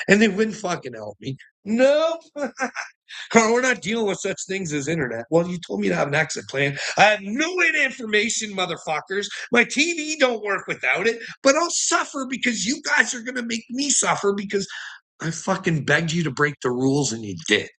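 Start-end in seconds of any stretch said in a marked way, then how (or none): 1.6-5.2 high mocking voice of the cops. Mocking the cops' refusal. 5.3-17.7 higher, heated pleading rant; retold angry rant. His angry rant at police.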